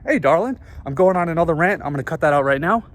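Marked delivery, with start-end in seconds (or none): 0.1-0.6 courteous greeting to women. Retold or imitated. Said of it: "when I talk to women".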